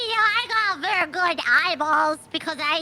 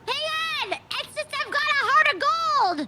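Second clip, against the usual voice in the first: pleading call; 5 semitones higher than usual. Acted. Player pleading at the closed shutters, laughing. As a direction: beg him to open up.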